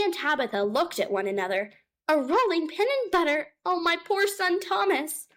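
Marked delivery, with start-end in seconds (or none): 2.1-5.3 high, alarmed outcry from a mother cat; alarmed exclaim. A narrator's reading. Tabitha to Ribby, fearing for her son, crying out high. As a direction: cry out in a fright for her son. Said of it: "exclaimed Tabitha".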